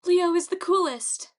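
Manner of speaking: high, loud echoing cheer; high fangirl shout; shouting back. A narrator's reading. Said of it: "Echo shouted back".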